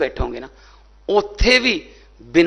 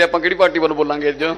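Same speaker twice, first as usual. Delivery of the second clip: mocking through laughter; faster than usual. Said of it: "driver ਤੋਂ ਪੁੱਛਦੇ".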